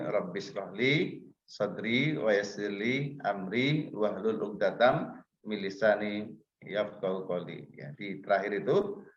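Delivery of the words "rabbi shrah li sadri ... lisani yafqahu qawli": slow, phrase-by-phrase Arabic recitation; measured Quranic verse recital; prayer recitation. Shown as a demonstration. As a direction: recite the prayer slowly, pausing between phrases.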